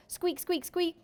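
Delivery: high squeaky hamster voice; hamster squeaks. Acted. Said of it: "get into the act".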